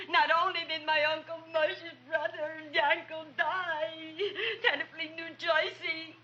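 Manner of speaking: tearful lament; woeful crying complaint; mournful wail. Acted. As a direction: whine the bereavement like a put-upon mourner. Customer laments relative's death again.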